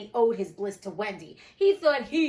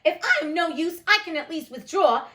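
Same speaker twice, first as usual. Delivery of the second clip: dignified huff; 6 semitones higher, 8 dB louder than usual. A narrator's reading. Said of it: "in the most dignified way".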